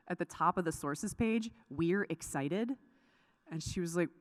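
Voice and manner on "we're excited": slow, lightly Southern reading aloud; Southern accent. Retold or imitated. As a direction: draw it out with a hint of Southern. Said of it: "she has a really thick Southern accent".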